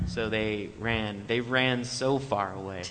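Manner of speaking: drawn out, slow, milking the punchline; slow dramatic echo. Pretend. Echoing the fleeing band, drawn out slowly. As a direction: stretch each word like a movie ending.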